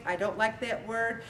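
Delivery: soft, quiet and even; quiet firm calm; calmly said. Shown as a demonstration. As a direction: state it calmly, no edge. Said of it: "I very calmly say".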